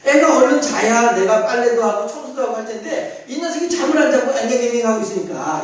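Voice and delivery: ordinary talk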